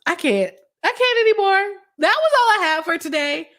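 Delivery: can barely get words out from laughing; laughing fit. Real, not acted. Streamer ending the stream while cracking up. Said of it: "Y'all got me cracking up".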